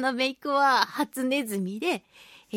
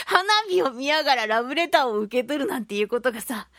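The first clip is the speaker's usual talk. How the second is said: laughing while talking. Real, not acted.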